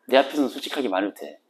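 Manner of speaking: hushed, gentle reassurance; quiet, tender confession of knowing; soft confiding. Retold or imitated. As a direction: speak low and kind, like a secret. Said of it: "이렇게 얘기를 해요".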